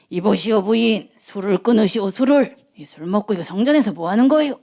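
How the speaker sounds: acted elderly priest reproaching her; scolding old priest. Old priest Eli scolding a woman for drinking, reproachful. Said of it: "가서 뭐라 그랬느냐면".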